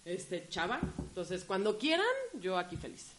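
distant, faint off-mic voice; sitting too far from the microphone. Real, not acted. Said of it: "pégate más al micrófono".

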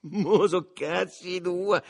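mock threat, drawn out and loud; minaccia scherzosa. A narrator's reading. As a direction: tease them with a slow, loud threat. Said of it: "fece ridendo il suo compagno, minacciando". (minaccia scherzosa, lenta e ad alta voce)

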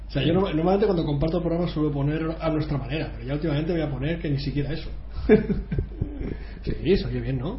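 speaking away from the microphone; distant, off-mic voice. Real, not acted. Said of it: "ahora te oigo mejor".

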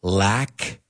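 "Cattle lack" drawn out slowly, split in two; slow split words. Shown as a demonstration. A teacher slowly splits "Cattle lack" to explain the joke. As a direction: stretch "Cattle lack" to reveal the pun. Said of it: "do you get it now?".

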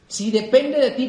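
"Si depende de ti" dicho despacio, marcando cada palabra; recálcalo sin prisa; lento y marcado. Shown as a demonstration. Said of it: "repetición enfática". (repítelo más lento para que se grabe)

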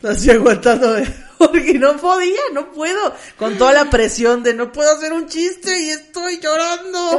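half laughing, half crying; laughing, holding back tears. Retold or imitated. Recalling crying at the office, laughing through it. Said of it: "yo empecé así".

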